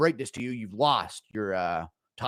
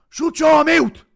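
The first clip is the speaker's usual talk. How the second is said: mock yell; 9 dB louder, slower than usual. McGregor bit, yelling.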